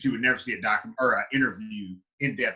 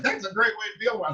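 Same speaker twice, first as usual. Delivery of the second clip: wife; 9 semitones higher, faster than usual. Retold or imitated. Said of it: "she was like".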